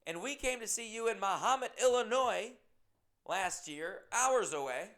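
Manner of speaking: high, bright mock fan voice; chirpy imitation of two fans; quoting the fans. Comedian imitating fans greeting him after a show, high and excited. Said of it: "these two women come up and they go".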